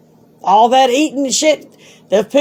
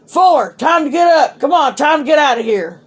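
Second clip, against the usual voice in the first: mock guard's higher wake-up call; 5 semitones higher than usual. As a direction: call her up like a jail guard. Guards banging, waking her.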